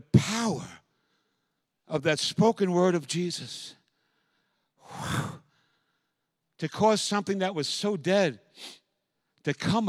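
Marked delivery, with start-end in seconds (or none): 4.8-5.4 awed breathy whew. Real, not acted. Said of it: "I shake when I even say that".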